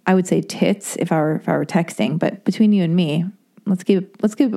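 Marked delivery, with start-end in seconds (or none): 3.7-4.6 tripping over the words; stuttering. Real, not acted. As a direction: stammer and break into a laugh. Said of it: "I'm stuttering and drooling".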